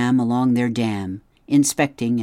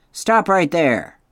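firm command; 6 semitones higher, 6 dB louder, slower than usual. Acted. Beaver tail slap warning.

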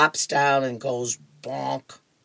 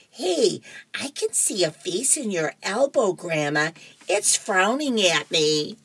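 little grandson; 5 semitones higher than usual. Acted. Grandson Nelson teasing Grandma.

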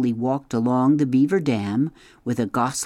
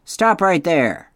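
tail-slap warning; 7 semitones higher, 6 dB louder, slower than usual. A narrator's reading. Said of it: "which meant".

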